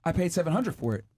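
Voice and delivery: put-on high, excited girlfriend squeal; gushing girlfriend. Friend bragging about her cheaper bag, high excited squeal. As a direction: brag like a thrilled friend. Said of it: "And she's like".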